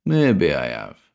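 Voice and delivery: slow, knowing; sly grin. A narrator's reading. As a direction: draw it out slyly. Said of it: "Cranston grinned back".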